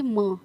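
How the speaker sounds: "म" sounded alone as the first sound of म्यूजिकल; m sound isolated. Shown as a demonstration. Teacher answering which sound it starts with, isolated "म". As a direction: isolate a clear "म". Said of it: "इसमें sound कैसे आ रही".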